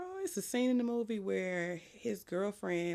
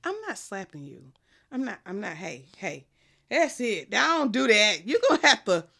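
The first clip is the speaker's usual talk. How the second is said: retold refusal; 5 dB louder than usual. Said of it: "He was like".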